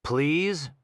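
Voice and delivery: high, frightened little plea; trapped girl whimpering to her captor; whimpered plea. Acted. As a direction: beg in a tiny scared voice. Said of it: "and whimpered".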